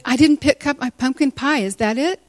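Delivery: lightly acted worried question; anxious excuse. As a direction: offer a nervous guess, retold. Pleads excuse to summons.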